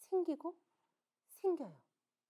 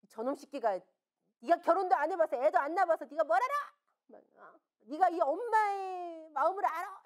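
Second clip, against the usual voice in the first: mock angry cursing; 5 semitones higher than usual. Mother cursing the teacher inwardly, indignant rant. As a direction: fume at him as if cursing. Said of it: "이러고 막 욕을 했어요".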